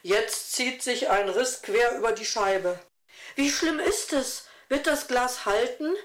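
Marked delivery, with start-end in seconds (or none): 3.4-5.9 leicht besorgt, etwas höher fragend. A narrator's reading. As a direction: ein Hauch von Sorge in der Frage. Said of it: "fragte Jasmine besorgt". (sanft besorgt nachfragen)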